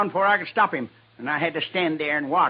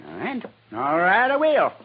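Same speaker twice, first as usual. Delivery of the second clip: bitter resolve. Acted. Angry Ira gives in, then threatens.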